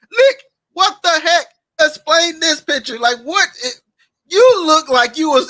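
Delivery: fake-sob the demand for laughs; mock crying plea. Roast host begs Nick to explain photo, mock sobbing.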